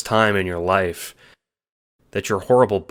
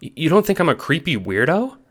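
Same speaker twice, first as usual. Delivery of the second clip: croaking; 9 semitones higher, 3 dB louder than usual. A narrator's reading. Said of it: "you croak".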